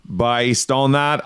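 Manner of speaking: slow, careful Australian attempt; retry the Australian accent slowly; slightly improved fake Australian; second-try Australian accent. Shown as a demonstration. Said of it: "That's a little bit better".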